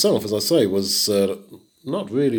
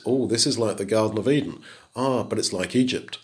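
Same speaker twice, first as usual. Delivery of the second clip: musing aloud, tempted both ways; torn between two wishes; faster than usual. Retold or imitated. Preacher voicing Lot, quickly wavering between Eden and Egypt. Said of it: "his motivations are all mixed".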